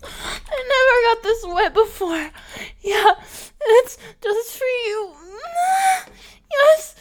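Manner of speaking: high, breathy-sounding put-on girly voice, whimpering; fake e-girl voice. Gamer girl putting on her e-girl voice for her partner, high and whimpering. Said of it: "No more fake e-girl voice".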